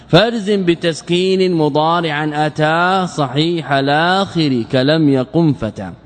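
slow, measured didactic verse; lightly intoned teaching verse; verse recitation. Real, not acted. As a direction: recite the grammar poem with drawn-out vowels.

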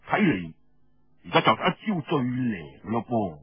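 hint at a trick; knowing man. Acted. Feng Yunshan slyly hints to Xuanjiao, low voice.

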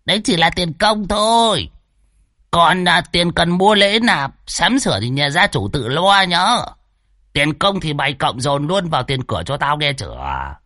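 milk the scared host for money, smugly; sly old swindler. Acted. Old Đồng quotes a price. (giọng lão già tham lam, đắc ý)

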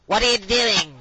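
high-pitched scolding teacher; exaggerated, high teacher's accent; mocking teacher impression. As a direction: mimic a teacher telling off a pupil. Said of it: "I'll take them out of their accent".

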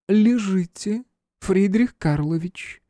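put-on dignified elderly empress, slow, slight foreign accent; deep chesty voice. A narrator's reading. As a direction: speak low from the chest, slowly, with a faint foreign lilt. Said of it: "произнесла дама глубоким грудным голосом, с лёгким иностранным акцентом".

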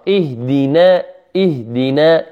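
اهدنا with every letter light and thin; light articulation. Shown as a demonstration. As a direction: say اهدنا lightly, no heavy vowel. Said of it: "كله مرقق". (نطق اهدنا بترقيق كل الحروف)

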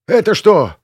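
high, loud startled question; shocked. A narrator's reading. Startled passenger as the plane is hit, shocked. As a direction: blurt it out in alarm. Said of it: "выпучил глаза Серёжа".

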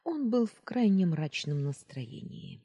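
ordinary delivery

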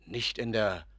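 whispered, rising disbelief; astonished whisper. Acted. Doctor hears the painter is giving up painting, stunned whisper. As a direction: breathe the question in shock.

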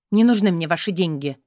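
a touch of angry snapping; angry blurt. Acted. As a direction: blurt it out crossly. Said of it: "выпаливаю сердито".

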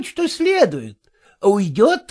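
ordinary delivery

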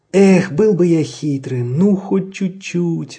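slow, wistful sigh. A narrator's reading. Caged fox sighs wishing he were sly, slow and wistful. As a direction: sigh it out slowly. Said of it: "вздохнул Людвиг четырнадцатый".

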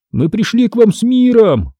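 a narrator's restrained shout; mild cry. A narrator's reading. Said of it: "закричал я".

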